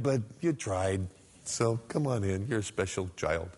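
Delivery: low, gently indulgent voice; patronizing consolation. Acted. God patronizingly consoles him, imagined.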